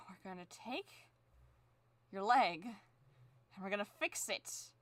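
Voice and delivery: slow, quiet menacing killer voice; creepy calm threat to the drawing; slasher killer. Acted. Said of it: "I sound like a serial killer".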